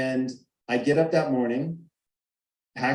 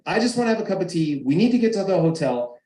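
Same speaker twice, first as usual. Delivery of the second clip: wife's retold yell; 5 semitones higher, 3 dB louder, faster than usual. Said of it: "we're screaming".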